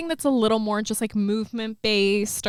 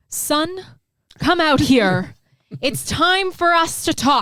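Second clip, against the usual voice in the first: loud, theatrical stage voice projected to the room; 5 semitones higher, 6 dB louder than usual. Mimicking a father in a play calling his son out, in a projecting stage voice. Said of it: "because you have to like project, has very much the same tone of voice".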